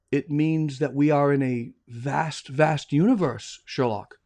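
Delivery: slow, low pondering Watson; slow wonder. Acted. Watson explaining the universe to Sherlock, slow and hushed. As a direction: dwell on how vast it is.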